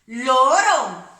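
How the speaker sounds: Loro said loud and clear, single tapped r; soft r. Shown as a demonstration. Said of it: "Vamos a hacer un lorito". (Loro bien claro con r suave)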